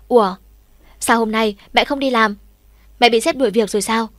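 loud, startled yell across the kitchen; shouting. Acted. Boy shouting at his mother in the kitchen, loud and startled. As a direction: blurt it out loud in surprise. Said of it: "Mình hét ầm lên".

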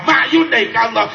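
ordinary delivery

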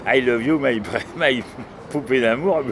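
put-on sung lightly in a French accent; mild French-accent crooning; French-accented English. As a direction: croon it like an old French chansonnier. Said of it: "comme un chanteur, chanter".

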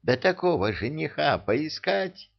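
high indignant outburst. A narrator's reading. King indignant over the groom.

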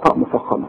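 طاء with a full emphatic sound; heavy ta. Shown as a demonstration. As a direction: press the طاء heavy and back in the mouth. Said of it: "لا، الطاء".

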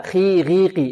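خي غيقي with a clear thin i, no itbaq; lighter open kasra. Shown as a demonstration. Teacher showing the correct open letters, light i after each consonant. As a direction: say خي غيقي open, not pressed into heaviness. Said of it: "فنقول هكذا".

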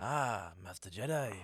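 echoes the friend's Sham voice, a bit put-on; teasingly parrots a greeting in a put-on voice; mocking the Sham voice. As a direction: friend redoes the rebel's greeting, lightly voiced. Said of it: "But it sounded like someone else".

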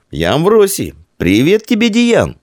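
high, proud formal hello; proud greeting. A narrator's reading. Little Roman greets new friend, proud high greeting. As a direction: greet grandly as taught. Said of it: "гордо приветствовал".

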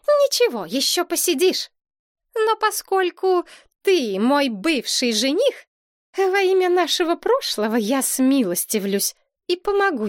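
princess lords it over her ex-fiancé ominously. A narrator's reading.

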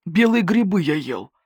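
mildly snarling wolf; snarled retort. A narrator's reading. Wolf answers the investigator's accusation, mildly snarling. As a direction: answer back with a touch of snarl. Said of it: "огрызнулся волк".

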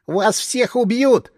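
slow, hateful cry; furious shout. A narrator's reading. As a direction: spit the threat out slowly with hatred. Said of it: "с ненавистью яростно выкрикнул".

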